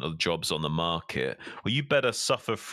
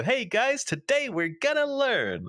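loud, high, hammed-up classroom rallying cry; over-the-top gung-ho teacher voice; enthusiastic AI teacher; 4 dB louder, slower than usual. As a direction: stretch it out slowly with huge mock eagerness. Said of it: "just ready to fucking go".

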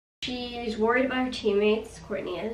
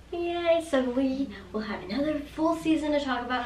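cheerleader; 4 semitones higher than usual. Real, not acted. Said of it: "I'm talking like a cheerleader".

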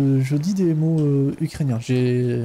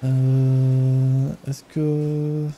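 put-on Ukrainian accent. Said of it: "mon superbe accent ukrainien".

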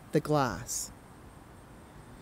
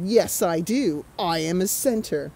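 put-on puffed-up teen. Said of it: "He puffed up his chest and said".

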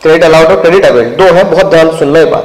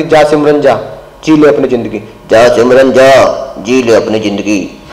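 film dialogue; 5 semitones lower than usual. Retold or imitated. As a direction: deliver "जा सिमरन जा" like the famous film father letting go. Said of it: "तो मैंने उससे बोला". (फ़िल्मी अंदाज़ में धीमा, नीचा डायलॉग)

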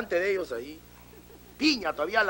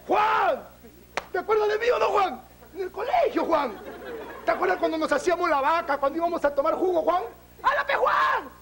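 fake old-friend greeting; 11 semitones higher than usual. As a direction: gush as if you found a long-lost school friend. Friend fakes recognition after slap.

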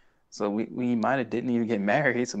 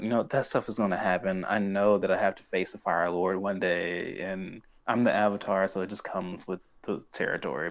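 nonchalant; 2 semitones lower than usual. Retold or imitated. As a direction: toss it off as routine. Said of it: "he's just very nonchalant about that stuff".

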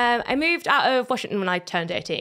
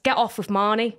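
Geordie model. Shown as a demonstration. Models Geordie line for her.

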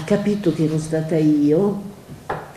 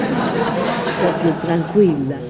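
laughing; slower than usual. Real, not acted. Laughs with audience.

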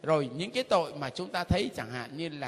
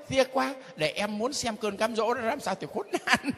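laughing mockery; 3 semitones higher than usual. Mocking a tempted sinner, laughing.

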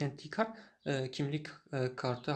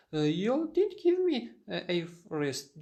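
indignant denial; 3 semitones higher than usual. Acted. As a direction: push back as if wronged. Photographer denies receipt. (öfkeli bir itirazla, yüksek sesle)

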